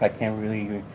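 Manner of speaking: winded, catching breath between words; breathless, short of air. Real, not acted. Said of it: "right now I'm out of breath".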